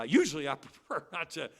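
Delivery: a laugh breaking into the repeat. Real, not acted. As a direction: chuckle midway through the words.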